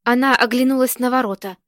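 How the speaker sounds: plain reading voice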